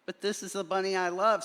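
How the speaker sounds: Wesley insisting he loves the bunny; earnest protest. A narrator's reading. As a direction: plead your love quickly. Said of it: "said Wesley".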